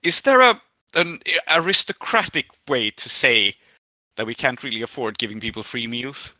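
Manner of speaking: nervous start, trailing off. Acted. Mother nervously asking her son about money, a touch of nerves. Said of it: "that nervousness coming back into her".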